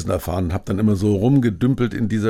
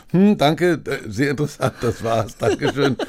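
parrot voice; 5 semitones higher than usual. Retold or imitated. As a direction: play the parrot ending a phone call. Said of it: "ich mach den Papagei selber".

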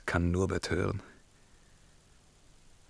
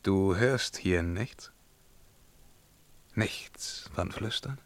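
breathy hushed question; barely voiced, eerie whisper; 6 dB quieter, slower than usual. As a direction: whisper it, straining to hear. Listening for whispers.

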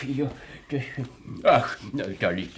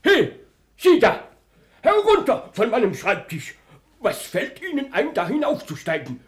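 shouting; 6 semitones higher than usual. Acted. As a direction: bellow at the intruder. Policeman yells at man on desk.

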